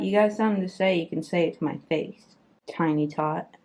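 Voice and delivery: hammed-up dare to a tiny cat; teasing threat at the pet; mock tough talk.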